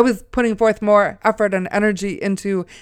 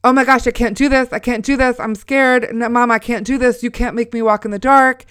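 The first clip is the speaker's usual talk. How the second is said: imitating a daughter's mild freak-out; retold panic; 2 semitones higher than usual. Daughter begging mom not to send her out, retold panic. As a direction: plead in mock panic, slightly raised pitch. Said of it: "went into this full-blown".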